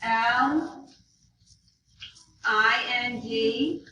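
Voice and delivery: slow letters with long gaps between them. Shown as a demonstration. Teacher leading class spelling it back, slow. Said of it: "Okay, spell it back".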